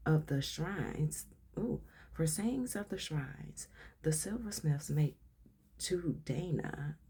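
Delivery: slow, measured read-aloud voice. Real, not acted. Reader shares a reference entry with listeners, slow read-aloud. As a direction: read it out slowly and deliberately.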